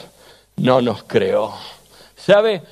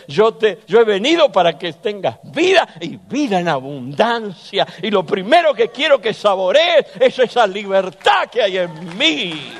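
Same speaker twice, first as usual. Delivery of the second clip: voice of God; 6 semitones higher than usual. Retold or imitated. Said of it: "el Todopoderoso dice".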